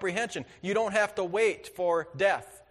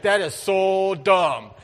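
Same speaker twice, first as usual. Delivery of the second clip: scornful wife; 7 dB louder, slower than usual. Retold or imitated. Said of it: "She's like".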